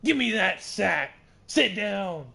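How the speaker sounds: loud, high excited yell; hyped yelling. Real, not acted. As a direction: scream it at the screen. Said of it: "I was getting a bit too hyped".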